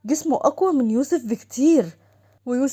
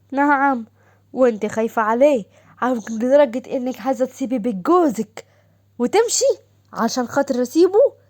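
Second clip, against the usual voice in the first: angry husband; 4 dB louder than usual. Acted. Husband angrily confronts wife.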